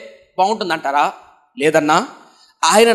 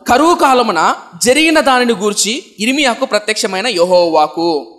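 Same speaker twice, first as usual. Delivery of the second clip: louder solemn Bible reading, last word slow; scripture reading; 4 dB louder than usual. Shown as a demonstration. Preacher reading the verse to the congregation, solemn and louder. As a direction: intone the verse like a reading from the pulpit. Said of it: "పద్నాలుగు మొదటి వచనం".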